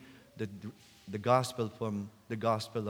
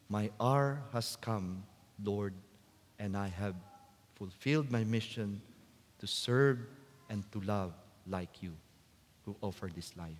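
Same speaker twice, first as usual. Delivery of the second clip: softer, fading prayer that dies away to a hush; quiet prayer; 4 semitones lower than usual. Pretend. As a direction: let the prayer sink away gently, each phrase softer. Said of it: "I hope we can also say".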